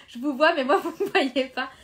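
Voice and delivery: laughing. Real, not acted. Laughing at her own live mishap.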